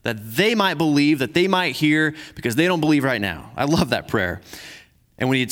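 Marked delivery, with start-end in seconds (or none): 0.0-3.5 measured, earnest Bible reading; scripture reading. Acted. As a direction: read the passage like a pastor to the church. Reads scripture passage aloud.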